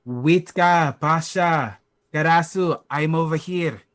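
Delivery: moderate in-character yell; calling out. Acted. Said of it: "I'll just yell".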